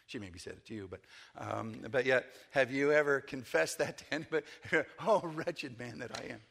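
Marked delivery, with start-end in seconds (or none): 5.0-6.4 mock groaned confession, drawn from Paul's outcry; retold anguished cry. Preacher voicing Paul's confession to the congregation, mildly anguished outcry. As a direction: lightly act out a wretched outcry. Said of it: "He cries out and just".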